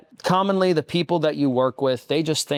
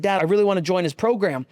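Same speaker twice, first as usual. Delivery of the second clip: eager; 6 semitones higher, faster than usual. Retold or imitated. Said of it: "I said".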